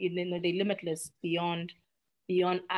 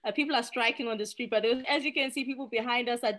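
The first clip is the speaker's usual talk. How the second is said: mock TV reporter, slightly higher; lightly voiced news anchor on location; foreign news reporter; 5 semitones higher than usual. Guest imitating CNN reporters covering South Africa, mock anchor voice. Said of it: "and they say".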